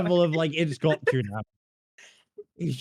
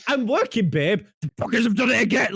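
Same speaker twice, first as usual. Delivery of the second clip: higher, louder, faster mocking quote; mock whiny partner; 7 semitones higher, 4 dB louder than usual. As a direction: imitate her complaint, exasperated.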